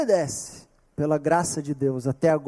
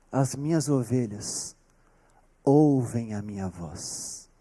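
hushed solemn quote; 8 semitones lower, 6 dB quieter, slower than usual. Acted. Jesus's words, hushed.

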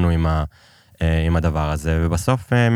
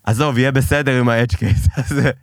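casual dismissive; 6 semitones higher than usual. Retold or imitated. Voicing the casual Israeli attitude.

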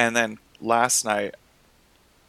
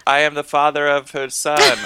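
mock yell; 5 semitones higher, 7 dB louder than usual. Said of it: "You should have yelled".

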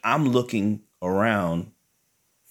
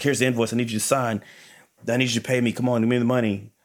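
rushing her; 3 semitones higher, faster than usual. Retold or imitated. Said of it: "I'm just rushing her".

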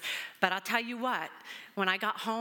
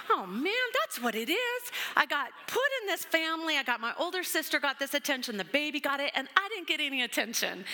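self-pitying whine; 5 semitones higher than usual. Retold or imitated. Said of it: "reading books on middle children and birth order going".

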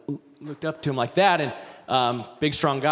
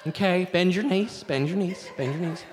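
gentle baptism coaching; 3 semitones higher than usual. Shown as a demonstration. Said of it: "we do baptisms all sweet".

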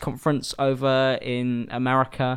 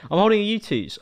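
high showy announcement; 9 semitones higher than usual. Shown as a demonstration. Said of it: "I don't know why I was talking like that".

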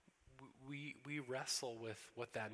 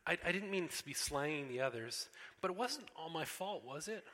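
put-on higher, louder girlish plea; a little girl begging to be believed; pleading girl Lucy; 7 semitones higher, 6 dB louder than usual. Lucy excusing herself.

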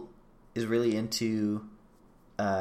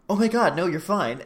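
sweet protest; 6 semitones higher, 5 dB louder than usual. Retold or imitated. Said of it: "the way she says it is so sweet".

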